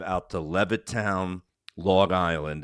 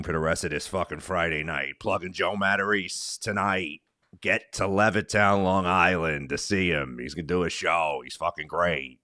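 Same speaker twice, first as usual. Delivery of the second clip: a light Long Island comic voice; Jim Florentine impression. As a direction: riff like a gruff Long Island comedian. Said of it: "now he's doing Jim Florentine impressions".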